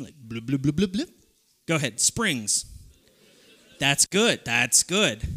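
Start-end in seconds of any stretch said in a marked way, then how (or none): 0.2-1.1 blubs that start lower and rise; deeper bubbling noise. Shown as a demonstration. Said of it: "can you start a little deeper".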